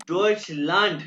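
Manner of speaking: डॉइचलैंड said with a clear German ending; German pronunciation. Shown as a demonstration. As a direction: stress डॉइचलैंड loudly, the German way. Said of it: "ये लैंड नहीं कहना".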